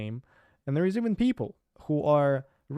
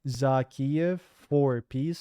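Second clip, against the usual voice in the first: retold accusation; slower than usual. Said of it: "And she says".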